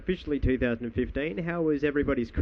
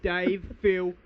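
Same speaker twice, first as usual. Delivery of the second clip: imitating Tony Abbott; 3 semitones higher than usual. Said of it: "he's calling out".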